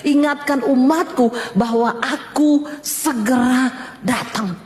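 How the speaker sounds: slow, deliberate divine message; measured proclamation that sinks at the end; voice of God. Retold or imitated. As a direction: lightly imitate God, spacing out the words. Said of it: "waktu Tuhan ngomong face to face".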